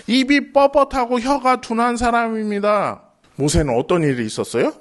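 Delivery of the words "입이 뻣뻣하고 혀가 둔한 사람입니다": Moses' halting speech. Retold or imitated. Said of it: "모세가 딱 이런 말투였대".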